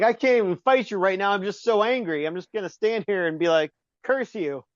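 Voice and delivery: mock furious villain. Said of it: "she's so pissed".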